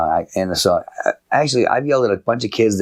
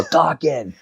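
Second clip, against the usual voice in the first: put-on kids' chorus; 6 semitones higher than usual. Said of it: "The kids all go".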